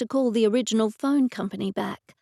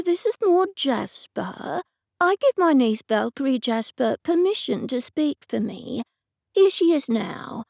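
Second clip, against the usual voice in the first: Aunt Maud's voice; 4 semitones higher than usual. Pretend. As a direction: pretend to be the elderly aunt on the phone. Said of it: "I did my best to imitate Aunt Maud's voice".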